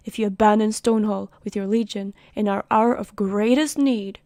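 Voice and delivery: loud, indignant plea, projected like a speech; stern envoy. Acted. Envoy berates the commander for leaving the city, loud and indignant. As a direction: scold the commander with rising outrage.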